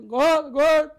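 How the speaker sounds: loud high yell of gordo; shouted tic. Retold or imitated. Reenacting his tic shouting at the fat man, loud yell. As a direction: blurt it out loud as an uncontrolled tic. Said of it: "eu fico falando pro gordo".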